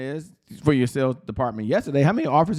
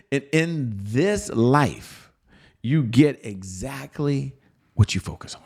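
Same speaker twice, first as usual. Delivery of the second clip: slow whisper; slower than usual. Shown as a demonstration. Coach repeating the motto to the sales team, slow whisper. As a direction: drop to a slow hush on "you get exactly what you focus on".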